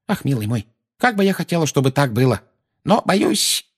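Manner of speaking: put-on anxious, regretful old voice; rueful old woman. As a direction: lament it to the boy.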